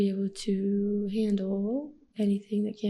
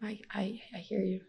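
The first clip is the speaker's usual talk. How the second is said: softer, gentle "I hear you"; soft demo; 6 dB quieter than usual. Shown as a demonstration. Mother modeling empathy for her kids, softly. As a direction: say it quietly like you mean it. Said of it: "All you have to say is".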